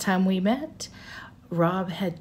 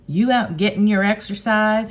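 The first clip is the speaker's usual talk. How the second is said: loud, raised, hearty call; hollered; 5 semitones higher, 5 dB louder than usual. A narrator's reading. Man hollering from his Jeep at the children. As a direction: holler it out, pitched up. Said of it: "he hollered".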